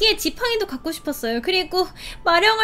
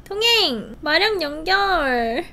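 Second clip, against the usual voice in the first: ordinary delivery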